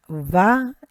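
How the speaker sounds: "vayomer" said va-YO-mer, each syllable clear; teacher pronouncing "vayomer"; Hebrew word vayomer. Shown as a demonstration. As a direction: sound out "vayomer" slowly for students. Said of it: "the first word".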